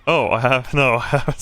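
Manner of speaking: laughing. Acted. Sylvie teasing, laughing.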